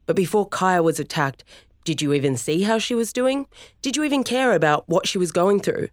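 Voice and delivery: confronting anger. Acted. Storm confronting dad.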